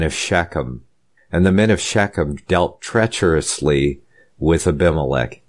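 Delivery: measured reading with pauses between phrases; formal, deliberate Bible reading; scripture reading. Real, not acted. Preacher reading Abimelech's story to listeners, formal scripture reading.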